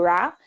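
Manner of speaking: "Ra" with the tongue curled back on the R; retroflex R. Shown as a demonstration. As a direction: say "Ra" with a curled American-style R. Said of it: "o R retroflexo".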